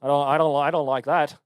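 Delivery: lightly put-on British accent. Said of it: "That was mostly British".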